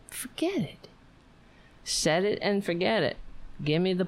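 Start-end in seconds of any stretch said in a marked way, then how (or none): 0.1-0.9 soft whispered aside; whispered surrender. Real, not acted. Owner gives up on the paw trick, whispered. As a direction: give up in a whisper.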